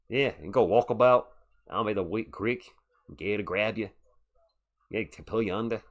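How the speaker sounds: lightly put-on Australian accent. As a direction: riff casually in a mock Aussie accent. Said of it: "can you do an Australian accent".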